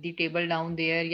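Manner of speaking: "The table down there" read slowly, word by word; slow example. Shown as a demonstration. Teacher rereading the example to the class. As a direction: say it carefully as the right split. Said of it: "जैसे अब".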